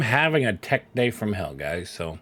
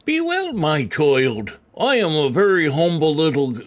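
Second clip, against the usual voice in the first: mock British accent; 5 semitones higher, 3 dB louder than usual. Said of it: "sounds like an American trying to do a British accent".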